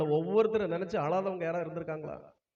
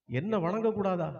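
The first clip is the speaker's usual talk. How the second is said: a touch of indignation, held in; offended disbelief. Acted. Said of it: "இந்திரனுக்கு வந்ததே கோபம்".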